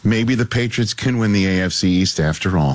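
low, mock-solemn restatement; deep voice. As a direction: drop the pitch for the whole line. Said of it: "You say that with the deep voice".

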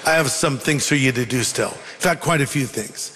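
low, measured acted reply; calm reassurance. The Lord tells Paul he must return, calm reassurance. Acting God calmly overruling Paul's protest.

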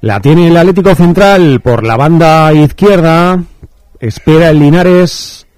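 measured radio football commentary; live play-by-play. Real, not acted. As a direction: narrate the attack for radio listeners. Calls live match play.

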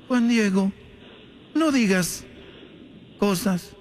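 apparition gently chiding, long pauses; solemn heavenly vision, drawn out; Virgen. Acted. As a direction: chide him word by word, each falling away. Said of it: "se le apareció la Virgen a Juan Diego y le dijo".

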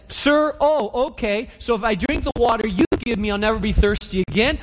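lightly sarcastic, a bit fast; mock enthusiasm, tongue in cheek; hint of sarcasm, rising at the end. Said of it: "There's sarcasm in, in her tone".

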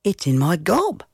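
put-on boy's answer. A narrator's reading. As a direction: lift the voice into a small boy's.

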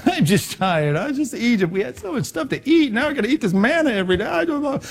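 whiny Israelite wanting Egypt back; whiny complainer. Retold or imitated. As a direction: whimper it like a scared grumbler. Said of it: "They were whiners and complainers".

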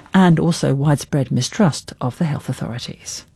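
measured, emphatic news anchor delivery; news read. Acted. Anchor reporting on the outbreak response to listeners, news read. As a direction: read it as a broadcast bulletin.

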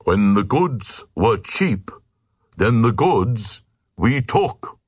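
lightly voiced stuffy knight reading the rule; a touch of a self-important old knight; solemn reading from the law book; pompous knight. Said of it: "Said the knight, Sir Stodge".

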